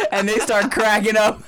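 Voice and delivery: slow, high, through laughter; laughing. Real, not acted. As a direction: tell it while cracking up. Cracking up telling funny story.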